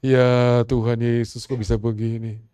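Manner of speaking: slow and loud, drawn out in dismay; loud anguished cry. Retold or imitated. The complaining woman crying out to Jesus, slow and loud. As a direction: cry it out slowly in disbelief. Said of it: "Dia komplain, dia marah-marah".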